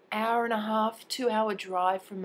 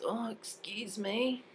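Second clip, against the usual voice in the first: tags 1; 4 semitones higher, much slower than usual. Retold or imitated. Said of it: "And she goes".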